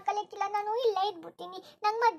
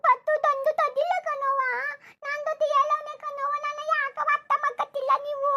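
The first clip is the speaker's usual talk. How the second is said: tearful plea; 3 semitones higher than usual. Acted. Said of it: "ಅಳ್ಬೇಡ ಕಣವ್ವ".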